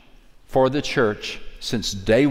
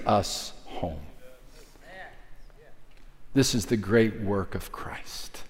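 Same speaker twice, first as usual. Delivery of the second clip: much softer and lower, hushed; dropping to a whisper; 4 semitones lower, 7 dB quieter than usual. Real, not acted. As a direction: let it fall to a reverent whisper. Drops to whisper.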